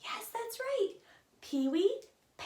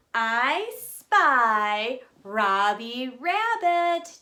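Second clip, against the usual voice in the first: slow i spy; 7 dB louder, much slower than usual. Acted. I spy game call.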